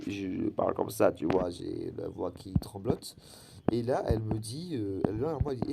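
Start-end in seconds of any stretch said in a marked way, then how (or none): 0.1-3.2 trembling voice. Real, not acted. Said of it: "si vous m'entendez avec la voix cassée".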